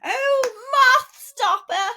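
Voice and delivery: high, loud Scouse cry; Scouse accent. Retold or imitated. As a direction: wail it out in broad Liverpool. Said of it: "there was a Scouse there".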